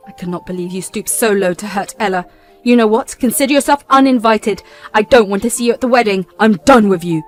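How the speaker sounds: loud, final rejection; the groom uninviting his sister; cold fury. Acted. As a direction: cut her off for good. Brother disowns sister.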